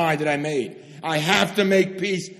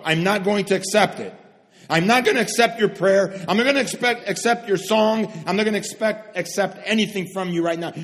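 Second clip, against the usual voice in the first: voicing Jesus; 3 semitones higher, 5 dB louder than usual. Jesus voiced in sermon.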